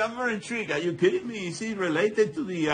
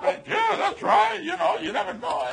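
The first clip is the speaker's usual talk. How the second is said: high, badly faked British accent; mock British, pitched well up; 9 semitones higher than usual. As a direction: wrap up a terrible British impression up high. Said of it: "That was the worst accent".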